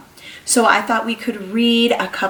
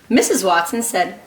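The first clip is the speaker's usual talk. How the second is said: lively picture-book read-aloud; reading to children. Acted. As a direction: read to a class of small kids. Reads picture book to class.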